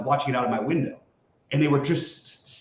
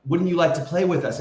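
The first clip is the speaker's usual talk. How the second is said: put-on creepy little girl voice; 4 semitones higher than usual. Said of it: "like, in, like, a creepy, like, little, little girl voice".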